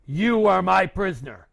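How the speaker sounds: loud barked order; commanding soldier. Acted. British soldier capturing Arnold, loud command. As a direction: claim him as prisoner. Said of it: "came up to him and said".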